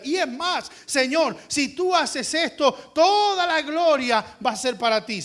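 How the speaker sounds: loud, confident declaration to God; bold faith prayer. Shown as a demonstration. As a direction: proclaim with certainty. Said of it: "dígale".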